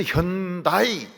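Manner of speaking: 현다이 with an English accent, slow; American 현다이. Shown as a demonstration. Preacher imitating Americans saying Hyundai: American 현다이. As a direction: drawl 현다이 as an American would. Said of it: "이 발음 못 해요".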